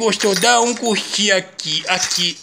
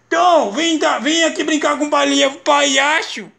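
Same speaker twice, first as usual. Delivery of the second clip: put-on coaxing baby talk; 6 semitones higher, 3 dB louder than usual. Dad coaxing baby to play.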